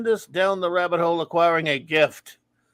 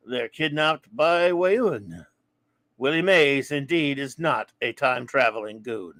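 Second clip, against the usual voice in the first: poem reading. Shown as a demonstration. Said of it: "hit that one more time for the great".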